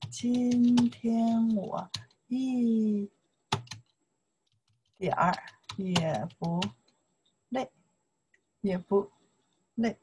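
very slow, each syllable apart; slow syllable drill. Shown as a demonstration. Teacher drilling a sentence slowly for students. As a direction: stretch it out word by word. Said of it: "You can say".

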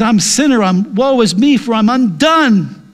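a hint of a broken sinner crying woe is me; confessing sinner. Sinner confessing before God, mildly pleading. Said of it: "what you need to do is before God says".

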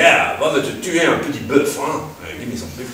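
mock French king. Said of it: "And he's gonna say".

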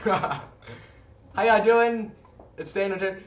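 loud streetwise hood accent voicing. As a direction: hype street-style greeting in a hood accent. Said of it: "a hood accent".

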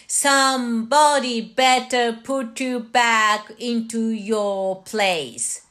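measured model read-through for learners; reading practice. Shown as a demonstration. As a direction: recite in steady rhythm, easing right down on the chorus. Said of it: "はじめは読みの練習".

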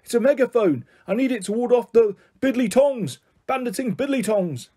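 put-on high-pitched, eccentric old grandpa; whiny grandpa. A narrator's reading. Grandpa explains his megaphone to the children, whiny. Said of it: "explained the strange whiny tone to his voice".

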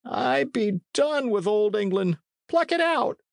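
high, strained dying plea; gasping. Acted. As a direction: beg with failing breath. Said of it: "gasped Appleyard".

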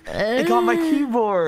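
slow, laughing disbelief. Real, not acted. Spat water over himself.

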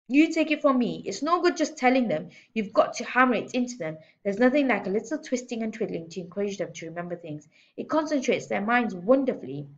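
lightly voiced overbearing headmistress; bullying headmistress, emphatic. Headmistress lectures teacher on discipline, lightly voiced and emphatic. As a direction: start high and loud, lecture with relish.

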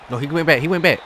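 loud, high protest at the screen; frustrated yelling. Real, not acted. Gamer yelling at his team's bad play, loud protest. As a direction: yell at the game in disbelief.

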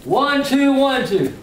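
calling the count slowly; boxing coach calling combos. Shown as a demonstration. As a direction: count it out like a trainer on the pads. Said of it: "I'm gonna slow it down where you can get it".

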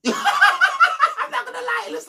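words squeezed out through a high laugh. Real, not acted. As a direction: laugh through the line, slowly.

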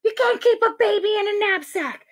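high-pitched scandalized protest; appalled teacher. Acted. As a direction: scold in shrill disbelief. Shocked teacher scolds Ben.

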